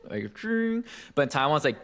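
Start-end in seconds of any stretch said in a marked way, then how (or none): 0.3-0.8 "ching" as a high, R-curled "chrrng"; emphasized R. Shown as a demonstration. Mimicking Beijing speakers, "ching" with exaggerated R. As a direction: curl the tongue hard through "ching", pitched high. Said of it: "really emphasize the R".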